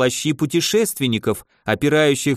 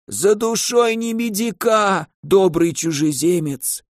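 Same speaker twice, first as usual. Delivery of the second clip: put-on slow creaky old man voice; 5 semitones higher, slower than usual. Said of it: "проскрипел старик".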